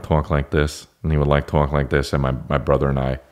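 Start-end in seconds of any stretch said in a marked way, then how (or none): 0.0-0.9 lightly imitated kid cousin, drawn out; slower, a hint of the cousin's odd kid voice; cousin's childhood voice. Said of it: "he had this voice when he was a kid". 1.5-2.1 lightly imitated kid cousin; a hint of the cousin's odd kid voice; cousin's childhood voice. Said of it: "he had this voice when he was a kid".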